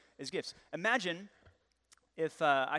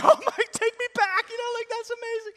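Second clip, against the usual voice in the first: much higher, mock-sentimental swoon; mock nostalgic gush; 10 dB louder than usual. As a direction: play up the longing for the past. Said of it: "worshiping the past thing".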